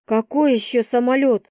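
ordinary delivery, nothing marked

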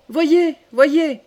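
high, loud excited call; cried out. A narrator's reading. Charles pointing out the falcon's winning dive, crying out. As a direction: urge them to look. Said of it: "cria Charles".

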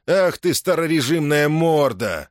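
high, slow furious insult; boiling over. Acted. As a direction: flare up in rage. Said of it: "закипятился". (вскипев от злости)

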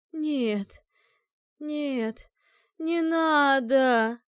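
terrified, pleading, drawn out and rising to a cry; hoarse moaning plea. A narrator's reading. Dead woman begging the exorcist, hoarse terrified moan. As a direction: beg in hoarse terror, breaking into a wail. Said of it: "сипло простонала Эленор".

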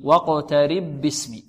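واقترب باسمي with the two ba sounds merged into one doubled b. Shown as a demonstration. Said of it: "ونشدد الباء من كلمة ماذا؟". (إدغام الباء في الباء مشددة في واقترب باسمي)

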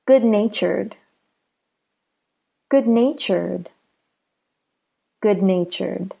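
"good-natured" with stress on "natured"; careful model of "good-natured", second part stressed. Shown as a demonstration. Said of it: "the stress is on the second part".

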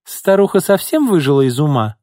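high, loud indignant question; crying out. A narrator's reading. Mistress rages at the old servant, crying out. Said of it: "крикнула она".

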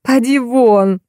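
high-pitched barked dismissal; angry bark. A narrator's reading. Actress orders the make-up artist out, barking angrily. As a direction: throw the person out with an angry order. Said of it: "рявкнула Щепкина".

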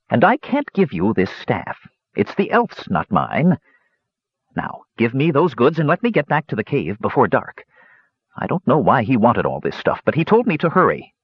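lightly voiced old dwarf. Dwarf hermit speaks.

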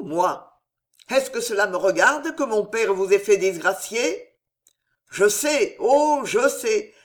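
a hint of madness, pressing hard; half-mad anger. Henri confronting the old lord, voice half mad. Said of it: "dit-il d'une voix démente".

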